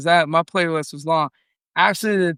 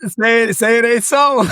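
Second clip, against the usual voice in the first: laughing; 7 semitones higher, 6 dB louder than usual. Real, not acted. Laughing disbelief at joke.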